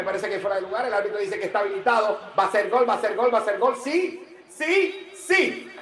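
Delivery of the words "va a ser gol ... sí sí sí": rising to high, separated calls; building goal anticipation. Real, not acted. Commentator awaiting a goal call, building anticipation. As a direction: count down to the goal, climbing high on each sí.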